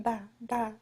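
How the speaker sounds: soft, tentative Russian accent; Russian accent attempt. Shown as a demonstration. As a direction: feel your way into a Russian accent. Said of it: "if I can do a Russian accent again".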